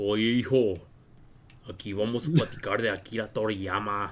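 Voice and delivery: exaggerated, super deep put-on voice. Joking about how they would talk, like a stereotypical Mexican: super deep put-on voice. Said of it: "the super deep like".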